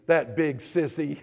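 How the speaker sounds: put-on soft, small, shaky little girl. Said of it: "a small, shaky voice saying".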